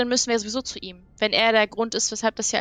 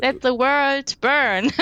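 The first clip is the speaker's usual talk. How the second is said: dramatic villain; 3 semitones higher, 4 dB louder, much slower than usual. Acted.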